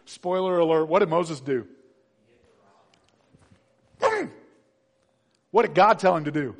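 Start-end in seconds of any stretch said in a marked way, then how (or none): none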